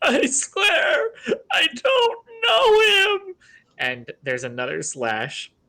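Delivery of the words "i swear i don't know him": muffled, very high, very slow voice. A prisoner in a burlap sack, being slashed, protests to his captors in a muffled voice. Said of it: "the muffled voice of the man in the burlap sack".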